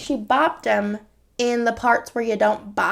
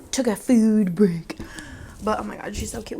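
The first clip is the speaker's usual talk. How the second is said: ordinary delivery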